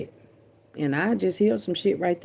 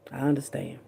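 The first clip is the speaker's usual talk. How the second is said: whisper; 4 semitones lower, 5 dB quieter than usual. Real, not acted. Whispered to daddy.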